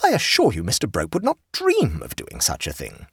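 high, flustered society hostess; shocked hostess. Acted. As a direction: protest like a scandalised hostess. Voices the hostess.

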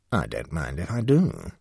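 indifferent. Acted. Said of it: "a tone of even indifference".

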